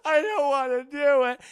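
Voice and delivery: loud, high mock whine; crazy wail. Renfield resists his master's orders, hammed-up crazy wail. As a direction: cry it out like a comic madman. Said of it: "He's acting all crazy and shit".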